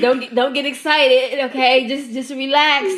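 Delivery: a hint of self-soothing coach; mock talk yourself down; coaching herself to calm down. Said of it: "I just be sitting there like".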